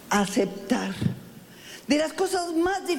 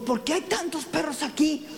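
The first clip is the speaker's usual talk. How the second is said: puzzled dog; 3 semitones higher than usual. Acted. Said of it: "Entró el perro y dijo".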